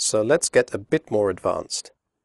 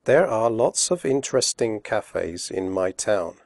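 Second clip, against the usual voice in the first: slowly. Shown as a demonstration. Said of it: "first slowly and then quickly".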